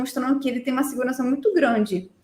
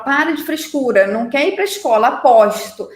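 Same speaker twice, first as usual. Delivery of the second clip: louder, impatient mock scolding; scolding mother; 6 dB louder than usual. Mother telling her sick child to stop faking, loud scolding.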